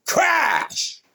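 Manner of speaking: loud, high shouted crash noise; imitated smash yell; mock crash shout. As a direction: blurt out a crash sound effect. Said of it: "I've gone".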